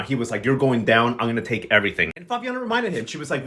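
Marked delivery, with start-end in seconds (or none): 0.5-2.1 low, menacing mock threat. Agno threatens Fabiana, low and mock menacing. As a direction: growl it low like a petty villain. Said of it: "threatening Fabiana".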